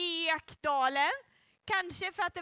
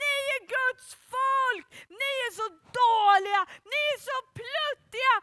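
loud, high, jeering taunting shout; 7 semitones higher, 5 dB louder than usual. Storyteller acts out a big, strong man shouting at god's people: retelling a taunting shout. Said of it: "ropade han så här".

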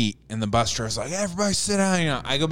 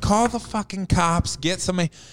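pitched-up shouted yell; 5 semitones higher than usual. Retelling a fight on a bus, acting out own yelling at the bus driver. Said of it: "I'm yelling at the bus driver".

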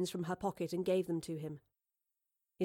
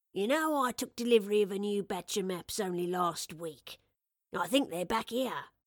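ordinary delivery

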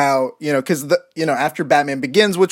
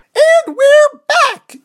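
loud, very high, eager and enthusiastic call; 7 dB louder than usual. Asked to say the show's return line loud and enthusiastic: Mickey Mouse impression. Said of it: "say it really loud and enthusiastic".

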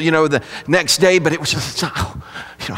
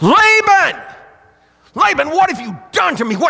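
very high, enraged, furious shriek; 12 semitones higher than usual. Retelling Jacob waking to find Leah: imitating Jacob screaming. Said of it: "starts scr-".

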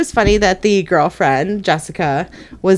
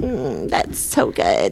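put-on sarcastic voice, lower and quieter; 7 semitones lower, 6 dB quieter than usual. Describing a character from Schitt's Creek: sarcastic Alexis voice. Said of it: "She's like".

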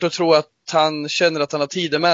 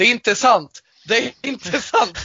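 put-on shout, higher; 7 semitones higher than usual. Imitating what another speaker said about the team: imitating someone shouting. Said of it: "Och det ropar".

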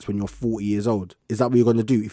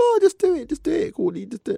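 very high, swooping, sing-song coaxing tone. Retelling how mum urges them on: imitating mum. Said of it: "My mum will be like".

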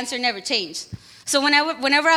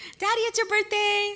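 put-on eager, excited little-kid voice, high and hushed; 8 semitones higher, 5 dB quieter than usual. Recalling running to his dad as a little kid: imitating an excited little kid. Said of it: "like a little kid, really excited".

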